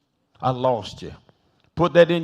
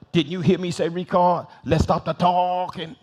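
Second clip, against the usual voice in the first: hands-on-hips teacher; 3 semitones higher than usual. Retold or imitated. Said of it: "put her hands on hips".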